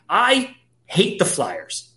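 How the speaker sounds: stretched out, mock anguish; slow exaggerated groan. Real, not acted. Host griping about his own team, slow and drawn. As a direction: drag out the complaint.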